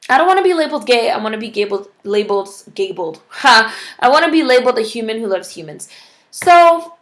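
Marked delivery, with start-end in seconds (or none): 0.1-5.9 mocking quote. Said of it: "I'm using quotes because she used quotes".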